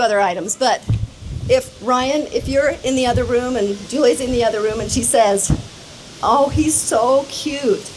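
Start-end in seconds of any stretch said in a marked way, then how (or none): 6.2-7.9 cooing bride. Retold or imitated. Quoting the bride cooing over cat.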